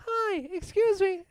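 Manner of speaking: put-on high kid voice with a Delco accent; young boy doing a survey, Delco accent. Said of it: "my Delco accent".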